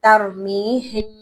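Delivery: ترمیہم slow, the last meem hummed through the nose; slow recitation of ترمیہم; ikhfa demo. Shown as a demonstration. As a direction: hide the meem in a nasal hum. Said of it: "میم کی اصل آواز کو چھپا دیا اور وہاں پر گنگناہٹ".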